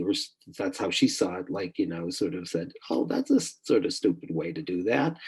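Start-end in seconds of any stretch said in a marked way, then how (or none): 2.9-5.2 lightly imitating a playful tease; playful giggly teasing. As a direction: toss it off as a mild, playful jibe. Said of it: "just gigglingly".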